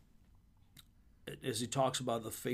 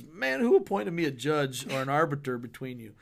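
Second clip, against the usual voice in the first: "Man" punched, louder at the start of the question; odd emphasis on Man; 5 dB louder than usual. Retold or imitated. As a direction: lean hard on "Man" like a mild scolding. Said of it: "Your emphasis was on the wrong syllable".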